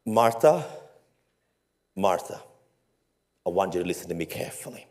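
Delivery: the name called at normal level, rising then dropping; a steady, direct calling of the name; firmer call. Acted. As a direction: call her to attention, gently but firmly.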